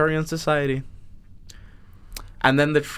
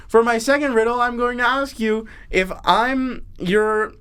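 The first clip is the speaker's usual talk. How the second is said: troll riddler; 5 semitones higher than usual. Pretend. Troll setting the second riddle, mock-grand. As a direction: pose it grandly as a storybook troll. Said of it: "troll says".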